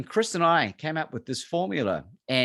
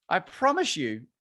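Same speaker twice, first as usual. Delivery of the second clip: ordinary delivery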